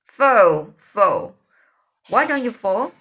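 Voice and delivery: put-on loud boyish shout in play. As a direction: yell it at the opponent. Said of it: "By and by Tom shouted".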